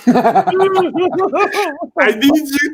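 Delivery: high, loud, laughing yell; excited shout. Real, not acted. Streamer yelling at the stream about the APY, shouting. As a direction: burst out, begging them to get it.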